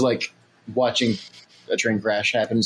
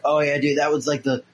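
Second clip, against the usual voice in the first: stoner voice; 3 semitones higher than usual. Retold or imitated. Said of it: "I'm doing my stoner voice".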